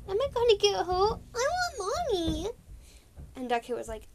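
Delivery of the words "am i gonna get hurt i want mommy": much higher, fast frightened kitten; scared little kit. Retold or imitated. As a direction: whimper for mommy. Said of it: "Galkit was like".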